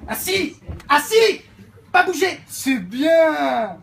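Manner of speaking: loud, high commands to a dog; barked dog commands. Acted. Mother shouting sit and stay at her dog.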